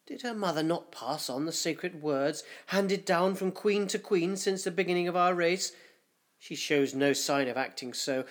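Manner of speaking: a hint of a fearful old councillor; anxious councillor. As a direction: voice the dread of the ruined hive. Councillor fears the queen's nightmares.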